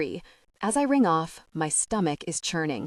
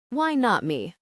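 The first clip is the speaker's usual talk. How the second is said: a firm, lightly raised retort; robust; 4 semitones higher than usual. Acted. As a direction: stand your ground with it. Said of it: "I say robustly".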